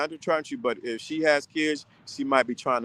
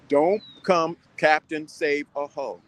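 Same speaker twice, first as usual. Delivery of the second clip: slow, every word spaced out; slow punchline; slower than usual. Shown as a demonstration. A host rephrasing his warning slowly for the audience. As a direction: land the line slowly. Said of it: "say it another way".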